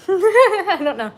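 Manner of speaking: high, slow laughing repeat. Real, not acted. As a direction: laugh it out, drawn out. Laughing at herself mid-bite.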